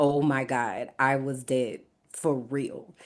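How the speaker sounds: tearful, crying through the words, broken by sobs. Retelling crying in the cafeteria after nearly choking: retelling own crying. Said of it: "So I'm just crying".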